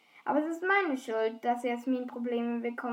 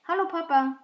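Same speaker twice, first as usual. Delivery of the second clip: higher, louder hello; bright phone greeting; 3 semitones higher, 6 dB louder than usual. Acted. Primula answers her phone.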